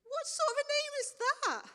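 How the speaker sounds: high, loud disbelieving squeak; incredulous. Acted. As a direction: sound baffled by the name. Incredulous reaction to God's name.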